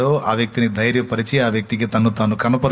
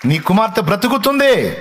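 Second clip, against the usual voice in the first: high, loud, urgent proclamation; fervent preacher voicing Jesus; full-force preaching; 8 semitones higher, 4 dB louder than usual. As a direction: call it out over the congregation.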